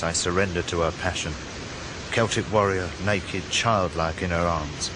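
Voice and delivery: hushed-paced, brooding narration; solemn inner monologue. Acted. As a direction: surrender gently to the river.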